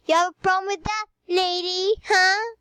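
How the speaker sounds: high, cocky teasing voice; sassy taunting. Acted. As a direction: taunt her with attitude. Teasing sister in put-on voice.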